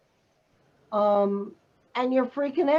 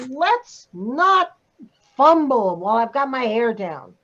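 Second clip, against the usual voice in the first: irritated; 3 dB louder than usual. Shown as a demonstration. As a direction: stretch the opening words with irritation. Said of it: "and you're irritated".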